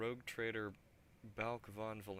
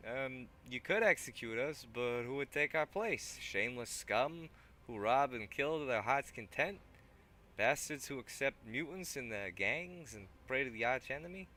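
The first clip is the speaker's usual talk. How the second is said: higher, louder put-on thug; 6 semitones higher, 10 dB louder than usual. Thug eyes the weapon rack, loud put-on voice. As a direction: keep the thug voice going. Thug pleads for his gang.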